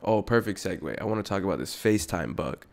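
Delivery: ordinary talk, nothing marked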